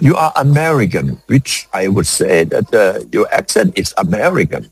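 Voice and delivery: slow, drawn-out English with an American accent; mock American accent. Shown as a demonstration. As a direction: spell out each word like an American. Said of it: "ยกตัวอย่างหน่อย".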